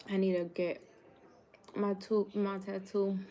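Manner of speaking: talking through a mouthful of food; words round a big bite; cheeks stuffed full. Real, not acted. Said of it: "Don't talk with your mouth full".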